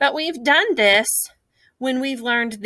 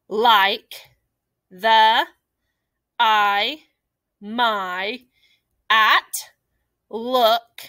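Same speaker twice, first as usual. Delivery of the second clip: teacher voice; much slower than usual. Shown as a demonstration. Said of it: "use your best teacher voice".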